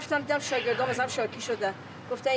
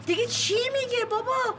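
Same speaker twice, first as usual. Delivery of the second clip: کلافه; 7 semitones higher than usual. Acted. مادر با تعجب و کلافگی.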